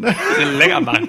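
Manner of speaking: squeaky high laughing mockery. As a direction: repeat it up high through laughter.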